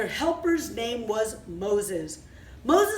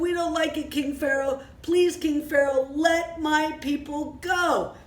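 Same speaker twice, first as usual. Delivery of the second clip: tag; 3 semitones higher than usual. Acted. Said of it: "made the Jewish people very sad".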